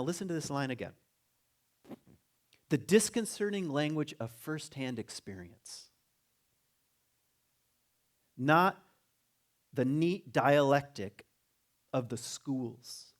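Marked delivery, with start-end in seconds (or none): 2.7-13.1 slow, measured reading of a quotation; emphatic, unhurried recitation; reading aloud. Acted. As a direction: read it out deliberately, weighting key words. Reads a quoted passage aloud.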